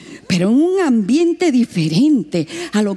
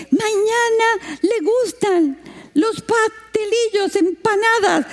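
native villager; 10 semitones higher, slower than usual. Retold or imitated. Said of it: "lo dijo tan rápido y en su lengua".

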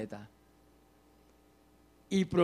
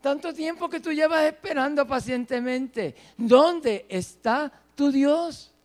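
higher, raised-voice jeering question; taunting cry; 6 semitones higher, 4 dB louder than usual. Acted. People taunting the waiting psalmist, crying out. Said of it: "me grita, me pregunta".

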